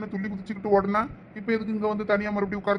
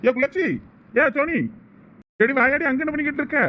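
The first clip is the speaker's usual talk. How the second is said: higher pitched call to someone far off; 5 semitones higher than usual. Acted. A friend calls to the girl standing alone, calling out high. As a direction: call out to her across the distance.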